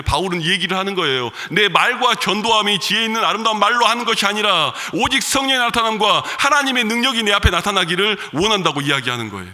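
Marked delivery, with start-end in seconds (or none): 1.5-8.8 raised, ringing quote of Paul; forceful scripture quote. Acted. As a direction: proclaim it to the congregation. (힘있게 선포하는 인용)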